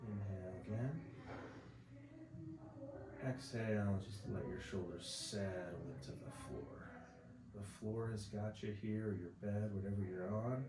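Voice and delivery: calm, unhurried relaxation-exercise voice; guided body scan. Acted. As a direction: guide them gently through each breath. Leads breathing body scan.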